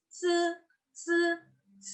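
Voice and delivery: C as a hissed dental affricate; tongue behind the upper teeth for C. Shown as a demonstration. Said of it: "posisinya di belakang gigi atas".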